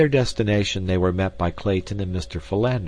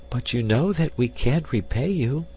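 higher-pitched protest; distressed cry; 6 semitones higher than usual. A narrator's reading. Girl to Clayton about repaying him, crying out. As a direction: protest in a high, pleading cry. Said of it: "cried the girl".

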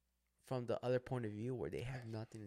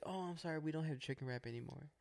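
higher, mildly apologetic worker; young girl; 4 semitones higher, 5 dB quieter than usual. Retold or imitated. Young worker apologising for a missing menu item, high girl voice. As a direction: imitate a young girl breaking bad news. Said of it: "A young girl comes up to us".

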